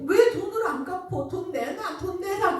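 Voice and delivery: pushy little-sister demand, acted out in retelling; retold angry demand. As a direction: re-enact a kid pestering for money back. Retold child nagging brother for money.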